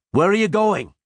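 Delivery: loud high shout. Acted. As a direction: shout to stop a deserter. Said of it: "he shouted".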